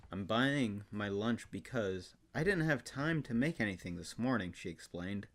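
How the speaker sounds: mock-earnest storybook reading with long pauses; dramatic reading. Guest performing Full House book aloud, dramatic reading. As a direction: lift the quotes, draw out the phrases dramatically.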